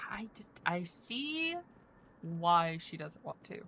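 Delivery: hushed unvoiced whisper. Real, not acted. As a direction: drop to a whisper. Whispers mid-thought.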